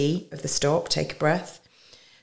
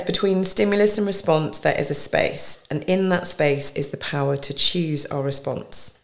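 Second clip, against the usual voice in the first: reading a quote. Real, not acted. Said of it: "I'm gonna read it actually".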